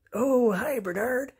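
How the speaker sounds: a friend waving hello; cheery greeting. Acted. Another animal greets Bernard.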